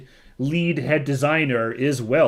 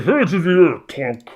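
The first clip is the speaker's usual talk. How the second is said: commanding shout; 6 semitones higher, 9 dB louder than usual. Acted. Guard's command, retold.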